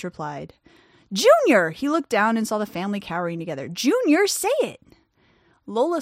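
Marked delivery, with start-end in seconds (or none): 1.1-1.7 loud urgent call; shouting. A narrator's reading. Desperate calling out. 3.7-4.8 high urgent yell; shouting. A narrator's reading. Desperate calling out.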